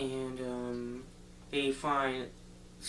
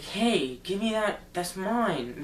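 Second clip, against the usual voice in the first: higher, louder acted-out protest; indignant demand; 5 semitones higher, 4 dB louder, slower than usual. Girl to boy who has her compass, indignant demand. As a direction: demand it back, imitating an affronted kid.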